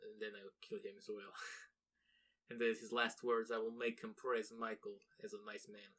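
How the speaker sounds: put-on a jokey Russian hitman accent trailing off; mock Russian assassin. Russian hitman boasts of his plan, soft deadpan Russian accent. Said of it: "I don't know why they're Russian".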